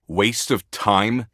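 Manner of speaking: slow, rising disbelief; scoffing question, stretched out; incredulous echo. Acted. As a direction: throw it back as a drawn-out question. Echoes other's words in disbelief.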